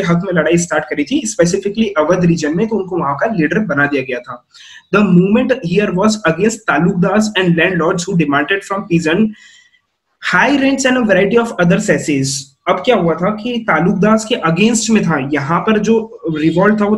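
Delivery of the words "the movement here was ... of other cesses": slow, deliberate reading of the textbook. Shown as a demonstration. Teacher reading the textbook to students, slow and deliberate. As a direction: read each phrase out slowly for the class.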